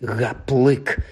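скімли щораз вище, від звичайного голосу до тонкого писку; наростаючий розпач із кожним повтором; скімлення. Acted. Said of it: "заскімлив Рон". (дедалі тонше скімлення)

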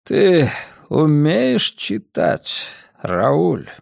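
put-on slow, hoarse old man question; wheezy old voice, words drawn out; breathless old speaker. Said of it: "хрипло вздохнул".

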